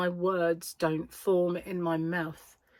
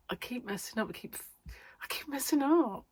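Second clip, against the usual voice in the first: soft rueful repeat; quiet; 6 semitones higher, 5 dB quieter than usual. Real, not acted. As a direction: say it softly, shaking your head. Repeating mistake self-mockingly.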